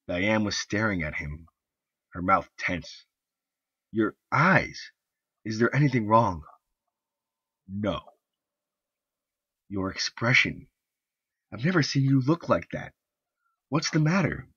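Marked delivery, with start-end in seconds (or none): 3.9-14.5 lightly voiced wife, higher and anxious; a hint of a woman uneasy at his look; worried wife. Wife questioning her husband's strange stare, anxious higher voice.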